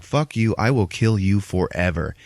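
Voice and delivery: mock-angry demon threat; defiant monster refusing the deal; Dormammu. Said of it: "He's like".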